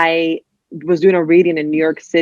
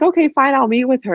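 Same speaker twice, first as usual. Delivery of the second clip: reluctant editor; 7 semitones higher than usual. Retold or imitated. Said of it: "she was like".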